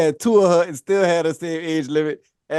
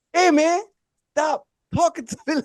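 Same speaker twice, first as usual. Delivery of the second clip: higher-pitched retold protest; irritated objection; 10 semitones higher than usual. Telling a teammate to back off, irritated objection. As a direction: push back, pitched well up.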